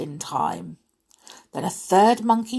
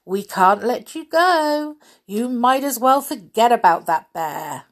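teasing monkey; 4 semitones higher, 5 dB louder than usual. Acted.

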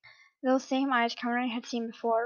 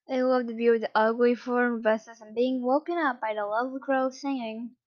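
sarcastic. Acted. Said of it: "Conrad said sarcastically".

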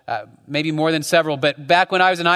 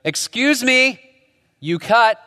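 Lauren's retort; 7 semitones higher, slower than usual. Retold or imitated. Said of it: "she goes".

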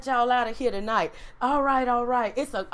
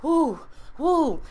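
higher, louder puffs of a choked-up person; mock choked breaths; 6 semitones higher, 4 dB louder than usual. Pastor acting out being choked up, breathy. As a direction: breathe out hard like fighting tears. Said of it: "choked up to the point where I'm like".

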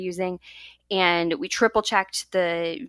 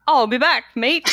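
put-on Australian accent; 6 semitones higher, 9 dB louder than usual. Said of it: "Jess, give it a go".

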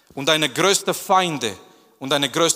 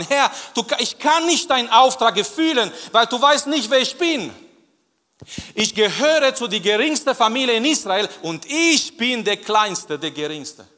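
pleading Gideon; 6 semitones higher than usual. Acted.

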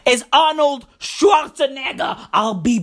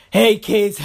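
a hint of a breezy dad, lower; returning dad; 4 semitones lower than usual. Father greeting his grown kids, lightly voiced and lower. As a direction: lightly voice a father coming home after fifteen years. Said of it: "the first thing he says".

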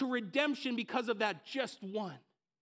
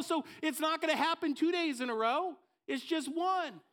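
1 tempting excuse voice; 5 semitones higher than usual. Acted.

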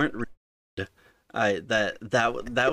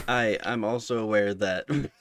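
laughing; 4 dB louder than usual. Real, not acted. Starts question, breaks into laugh.

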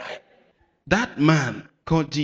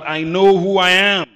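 loud declaration; shout it loud; 3 semitones higher, 7 dB louder than usual. Shown as a demonstration. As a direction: shout it out to the congregation. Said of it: "Shout it loud".

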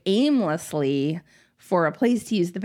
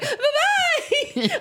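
hasty farewell. Retold or imitated. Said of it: "I was like".

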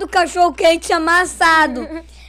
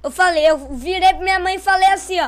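ordinary delivery

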